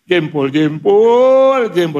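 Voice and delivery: put-on high, pained old woman's cry. Old woman in the crowd yelling about her toe, shrill and high. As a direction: yelp like a granny whose toe got stepped on.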